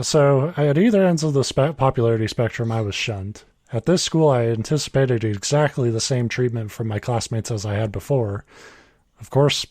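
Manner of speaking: even, measured reading voice; story read aloud. A narrator's reading. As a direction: read the written story out plainly.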